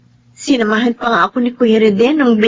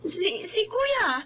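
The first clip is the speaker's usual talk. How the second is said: much softer and higher, stammering; hesitant and soft; 10 semitones higher, 10 dB quieter than usual. Acted. Daughter hesitantly tells Daddy that her brother used the car, softly. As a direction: nervously let it slip.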